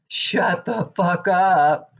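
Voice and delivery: drawn-out, fed-up put-down; slow disgusted snap. Retold or imitated. Viewer venting at the debate moderator, slow disgusted snap. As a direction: spit each word out slowly in disgust.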